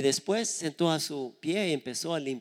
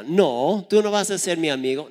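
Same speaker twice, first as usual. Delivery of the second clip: louder, fast angry retort; fierce daughter; 3 semitones higher, 6 dB louder than usual. Retold or imitated. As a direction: snap back fast and fierce. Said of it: "como es muy brava". (hija brava, réplica fuerte y rápida)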